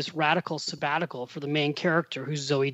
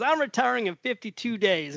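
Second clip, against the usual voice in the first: imitated Southern accent, raised pitch; 5 semitones higher than usual. Seatmate announcing his retirement countdown, mock Southern accent. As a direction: lightly mimic a Southerner, pitched up. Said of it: "He's got a Southern accent".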